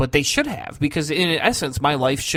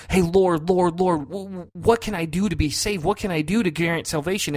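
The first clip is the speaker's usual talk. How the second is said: pleading sinner; 4 semitones higher than usual. Retold or imitated. A convert begging the Lord how to be saved, pleading. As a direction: play the seeker calling on the Lord. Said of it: "she's saying".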